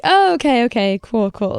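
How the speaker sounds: trying to stay calm, voice jumping up; breathless okay, cool to herself; nervous excitement. Real, not acted. Telling herself to stay calm while inwardly freaking out. Excited reaction at her proposal.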